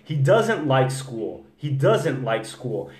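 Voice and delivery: He doesn't like school. said slowly with doesn't stressed; slow model sentence. Shown as a demonstration. Teacher modeling the sentence slowly for students. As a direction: spell out each word for the learner. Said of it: "Repara aqui".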